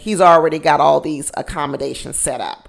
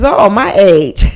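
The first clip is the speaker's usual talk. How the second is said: proud Brian quote; 5 dB louder, slower than usual. Retold or imitated.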